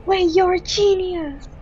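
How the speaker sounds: excited. Real, not acted. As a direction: cheer the win. Puzzle solved, amazed.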